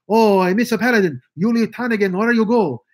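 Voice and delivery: a milder take on the radio sidekick; Hey Boy voice. Retold or imitated. Radio servant calling after his boss, lightly voiced. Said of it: "he talked like that".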